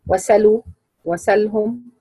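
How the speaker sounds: "وسلوا، وسلهم" as wasaluu, wasalhum, no glottal stop; naql, hamza dropped. Shown as a demonstration. Teacher giving examples, "وسلوا، وسلهم" with hamza dropped. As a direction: move the vowel onto the sin in "وسلوا، وسلهم". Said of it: "قرأ بالنقل".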